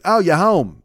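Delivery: put-on rough stab at a Boston accent. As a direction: badly imitate a Boston delivery guy. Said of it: "this dude was straight Boston".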